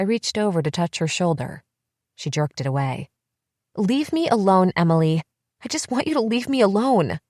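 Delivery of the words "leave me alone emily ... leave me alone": high, sharp rejection; angry. A narrator's reading. Elizabeth telling her twin to leave her alone, angry. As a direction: shut her out. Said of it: "angry sister pushing her away".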